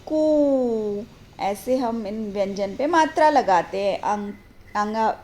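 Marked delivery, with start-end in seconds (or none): 0.0-1.0 कू held long after a pause; drawn-out कू. Shown as a demonstration. Teacher completes the matra spelling, drawn-out कू. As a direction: sustain the oo of कू. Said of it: "क पे बड़े ऊ की मात्रा".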